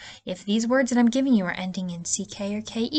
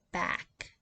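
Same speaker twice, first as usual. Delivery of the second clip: whispered word; 10 dB quieter than usual. Shown as a demonstration. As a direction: Back whispered and soft. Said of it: "listen to that vowel sound".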